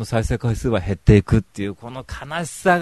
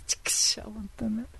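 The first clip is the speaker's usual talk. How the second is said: whispered curse; 9 semitones higher, 7 dB quieter than usual. Real, not acted. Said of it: "whispered curse".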